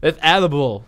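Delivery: laughing while saying "Annibal" on purpose; a giggly, deliberate "Annibal". Pretend. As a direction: say "Annibal" again through a laugh as a joke. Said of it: "Did I say Annibal?".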